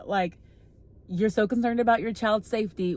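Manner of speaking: usual speaking voice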